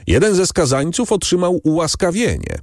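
high-pitched, clear public announcement; głośna proklamacja. A narrator's reading. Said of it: "zawołał głośno i wyraźnie". (głośno i wyraźnie, wysokim głosem herolda)

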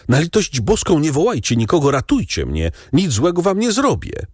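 a pleading call, read with restraint; dazed plea. A narrator's reading. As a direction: plead as if half out of your wits. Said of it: "zawołał blady i półprzytomny".

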